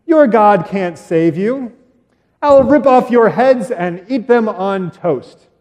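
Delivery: slow, hammed-up giant threat; mock menacing giant. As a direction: growl it out slowly like a storybook giant. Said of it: "Goliath says".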